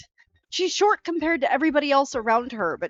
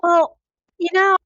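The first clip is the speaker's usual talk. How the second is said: put-on Australian accent; 8 semitones higher, 8 dB louder than usual.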